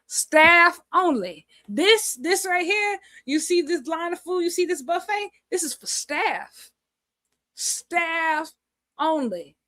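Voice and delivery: high, pointed mock bouncer shooing people off the food; mock staff-only bouncer. Pretend bouncer to the other wrestlers, shooing them off the staff buffet.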